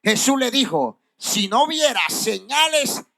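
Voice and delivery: drawn-out key words, pauses between phrases; scripture reading. Acted. Preacher reads of the official's dying son, emphatic scripture reading. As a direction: read the verse slowly and emphatically.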